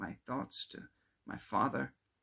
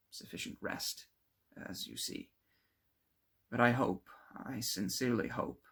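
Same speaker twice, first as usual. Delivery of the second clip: weary confession; 2 semitones lower than usual. Acted. Victor admitting to his friend he has not slept, weary. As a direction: sound drained, hoping it's over.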